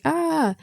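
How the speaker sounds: drawn-out high-pitched "ahh"; mock-panicked high cry. Retelling her flustered escape, high drawn-out "ahh". Retold character's shocked reaction.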